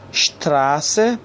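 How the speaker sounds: slow شتراسه opening on "sht". Shown as a demonstration. Teacher repeating for learners, slow شتراسه with sht. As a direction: draw out شتراسه with sh for s.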